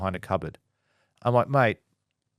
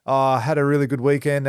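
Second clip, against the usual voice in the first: louder, broad Aussie bloke impression; real Aussie guy; 4 semitones higher, 5 dB louder than usual. Former workmate greeting a colleague, broad Aussie with uhs. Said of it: "like, a real Aussie guy".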